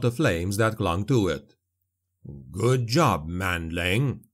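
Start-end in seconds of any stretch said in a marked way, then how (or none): 2.5-4.3 low gruff dwarf voice; deep dwarf rumble; Gotrek voice. A narrator's reading. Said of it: "Gotrek said".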